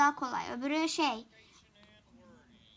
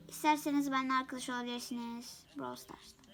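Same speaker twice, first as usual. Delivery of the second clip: whisper; 2 semitones lower, 6 dB quieter than usual. Real, not acted. Invites viewers, whispered aside.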